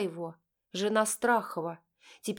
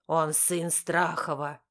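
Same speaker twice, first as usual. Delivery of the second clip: stern father; 3 semitones lower, slower than usual. A narrator's reading. Father states flatly.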